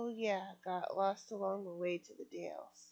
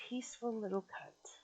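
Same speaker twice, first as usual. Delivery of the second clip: bitter, ranting voice of a woman gone mad with sleeplessness; tormented sleepless woman; 5 dB louder, faster than usual. Acted. Sleepless woman ranting at the sleeping stranger, bitter and loud. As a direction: rage and grieve at a world that won't let you rest.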